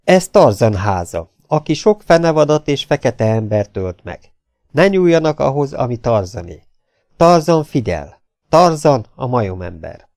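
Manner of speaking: measured reading of a notice; hangos felolvasás. A narrator's reading. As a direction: read the sign out deliberately. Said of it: "hangosan olvasni kezdett". (tagoltan felolvasva)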